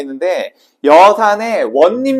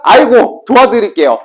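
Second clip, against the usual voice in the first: higher, louder acted yielding; giving-in helper; 3 semitones higher, 4 dB louder than usual. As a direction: give in hastily, hammed-up.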